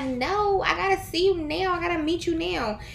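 high, eager and pleading; mock impatient urgency. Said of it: "but I was like".

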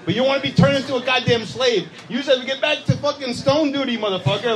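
mock overseer's order; acted slave driver. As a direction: order a slave back to work, hammed up.

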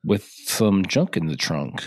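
ladies' man voice. Shown as a demonstration. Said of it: "your ladies' man voice".

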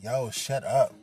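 annoyed silencing. Retold or imitated. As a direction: cut off her laughing, mildly irritated. Telling laughing girlfriend to shut up.

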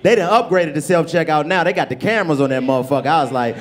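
usual speaking voice

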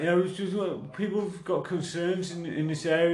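badly faked southern English canvasser voice; attempted southern English accent. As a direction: have another clumsy go at southern English. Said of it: "I can't do the fucking voice".

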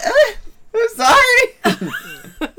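high, slow timid sorry; laughing sheepish apology; meek apology. Retold or imitated. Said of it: "and I'm like".

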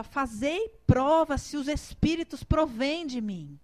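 slow, loud, emphatic quote; solemn quoted command. Retold or imitated. Preacher relays the Lord's warning to believers, solemn command. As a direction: deliver the Lord's words slowly and firmly. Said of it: "E o senhor falava".

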